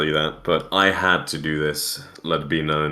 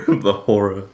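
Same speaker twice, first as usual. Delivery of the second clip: mock dramatic; 4 semitones higher, 4 dB louder than usual. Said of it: "grips his heart very dramatically".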